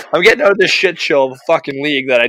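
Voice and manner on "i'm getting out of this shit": higher, louder exultant boast; fired up. Retold or imitated. Player tells the boys he's leaving, fired up and loud. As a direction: crow about escaping the league. Retold excitement over new team.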